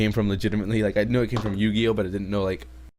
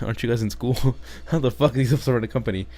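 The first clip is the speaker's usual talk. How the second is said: laughing disbelief; 3 semitones higher, faster than usual. Real, not acted. Mocking the show's logic.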